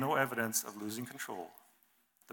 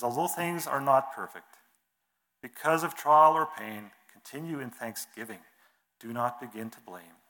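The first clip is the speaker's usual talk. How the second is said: poem reading; 2 semitones higher than usual. Acted. Preacher reads a patience poem to the congregation, recited. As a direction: read the lines like a recited poem.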